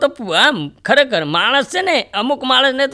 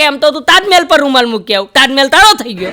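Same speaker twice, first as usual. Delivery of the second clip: dry retort; 3 semitones higher, 5 dB louder than usual. Retold or imitated. Old man's witty retort.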